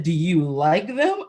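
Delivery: hint of a sergeant pressing the point; lightly voiced drill sergeant. Drill sergeant quizzing recruit about family, lightly imitated pressing. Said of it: "my drill sergeant looked at me".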